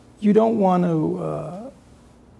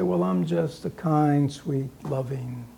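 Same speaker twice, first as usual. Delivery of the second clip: mock meek person fading to a whisper; hammed-up sugary whisper of a pushover; meek, sweet persona; 2 semitones lower, 8 dB quieter than usual. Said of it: "Or people say".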